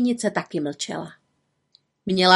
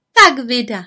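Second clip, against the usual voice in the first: pleased little witch, higher and louder; satisfied; 4 semitones higher, 7 dB louder than usual. A narrator's reading. Little witch to her tamed broom, satisfied. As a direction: say it with raised, contented approval. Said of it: "řekla malá čarodějnice spokojeně".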